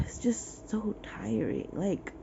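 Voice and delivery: breathy worn-out half-whisper; weary whisper. Real, not acted. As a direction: let it fade out, exhausted. Exasperated reading vlog sigh.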